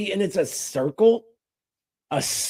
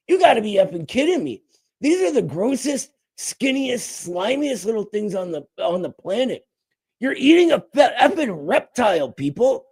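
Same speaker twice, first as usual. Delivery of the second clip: pitched-up mock outrage; incredulous disgust; 4 semitones higher than usual. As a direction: rant in hammed-up disbelief. His incredulous reaction to eating frogs.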